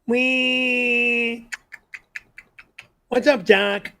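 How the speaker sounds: Bugs Bunny. Shown as a demonstration. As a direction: ask it like a cocky cartoon rabbit. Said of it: "do Bugs Bunny".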